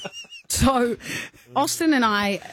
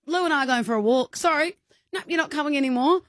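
high brisk mother voice; high teasing mum; mock-stern mum; 8 semitones higher than usual. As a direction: dismiss the naughty boy. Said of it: "She goes".

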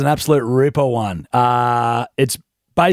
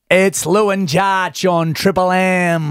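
commentator voice; 2 semitones higher, slower than usual. Acted. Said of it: "You sound like a commentator".

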